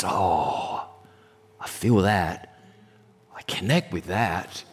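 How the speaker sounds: a lightly voiced God, moved and quiet; God's reply. God answering the simple prayer.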